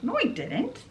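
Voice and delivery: put-on high, sharp young denial; indignant denial. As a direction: snap back that she didn't. Maleficent denies accusation.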